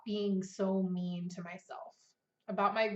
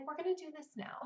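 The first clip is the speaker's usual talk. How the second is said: softer, calm and firm; gentle redirect; 6 semitones higher, 7 dB quieter, faster than usual. Retold or imitated. Mother gently redirecting her preschooler to the task. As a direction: steer the child gently. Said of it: "just be like".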